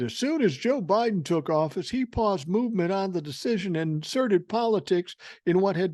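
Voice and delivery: a hint of a pompous senator; mock quoting Tuberville. Host reading Tuberville's statement aloud, lightly mocking. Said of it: "He said".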